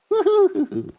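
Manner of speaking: loud high woohoo; a real excited cheer. Real, not acted. Player cheering on the minigame.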